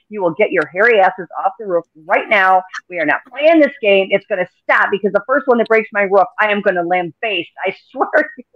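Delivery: mom voice. Retold or imitated. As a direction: tell the kids off from the yard. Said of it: "The mom voice is helpful".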